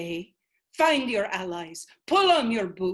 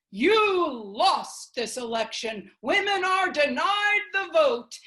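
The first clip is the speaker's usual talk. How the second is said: mock men's verdict; 7 semitones higher, 4 dB louder than usual. The men announcing the lost election, a mocking taunt. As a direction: jeer at the women. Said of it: "the men say".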